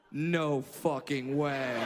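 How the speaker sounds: low, slow, drawn-out disbelief; deep slow mock voice. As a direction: drop way down and drag it out. Comedian retells guy's reaction.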